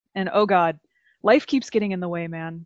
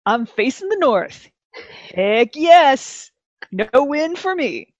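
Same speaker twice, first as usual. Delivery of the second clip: gleeful; 4 semitones higher, 5 dB louder, slower than usual. Retold or imitated. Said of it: "So I was sitting here going".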